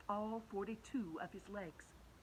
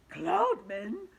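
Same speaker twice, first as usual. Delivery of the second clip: high, louder startled echo; alarmed question; 9 semitones higher, 10 dB louder than usual. Acted. The insects startled, echoing James, high alarm. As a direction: gasp it back in disbelief.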